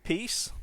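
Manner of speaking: Peace with a long ee; demo word. Shown as a demonstration. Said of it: "let me say some words".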